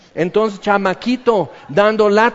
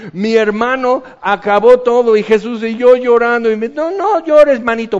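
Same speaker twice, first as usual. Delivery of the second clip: mock brother's story; 4 semitones higher, 5 dB louder than usual. Jokes brother's cornflakes tale.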